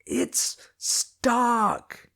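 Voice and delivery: high, loud, clear name; shouted. Acted. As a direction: yell the name up so he hears. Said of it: "I shouted".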